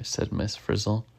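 lively read-aloud with swooping pitch; animated picture-book narration; story reading to children. A narrator's reading. Reading a bug adventure aloud to a child, animated storytelling.

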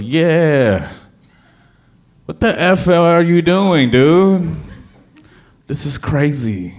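high, loud exasperated outburst at himself; panicked self-talk. Retold or imitated. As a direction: snap at yourself, suddenly doubting everything. Second-guessing himself in panic.

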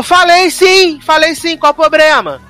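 high, loud-edged mock quarrel; hammed-up confrontational retort; defiant comeback. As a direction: act out owning up with no shame.

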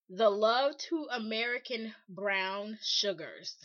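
slow, deliberate retelling of a cheesy line; drawn-out quote. Retold or imitated. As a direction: stretch out each word of the quoted line. Reads out suitor's cringeworthy message.

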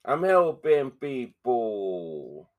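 very slow, drawn-out put-on voice; mock mobster do-gooder. Mobster claiming to help people, very slow mock voice.

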